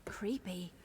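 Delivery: breathy whispered creepy. Acted. Companion in a dark cave, whispering. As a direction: hush it like the cave is watching.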